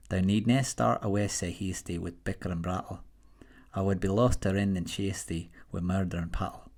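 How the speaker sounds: modest attempt at a Scots accent reading Burns; apologetic amateur Scottish accent reciting a poem. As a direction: read the Scots verse in a Scottish accent, half-confident.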